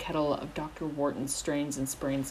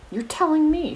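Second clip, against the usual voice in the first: much higher, louder retort; sharp counter; 12 semitones higher, 10 dB louder than usual. A narrator's reading. Pomfrey retorts to Hagrid, sharply countering. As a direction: snap it back at him. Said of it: "she countered".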